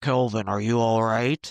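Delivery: menacing, really scary disembodied voice. Recounting a scene where a voice speaks to kelvin as he drifts off; really scary voice. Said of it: "we start hearing this really scary voice".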